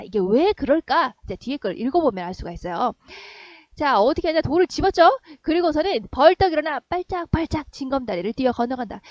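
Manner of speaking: normal talking voice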